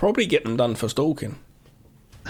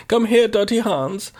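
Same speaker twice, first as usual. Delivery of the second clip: mock sleazy come-on; 8 semitones higher than usual. Mock porn film line.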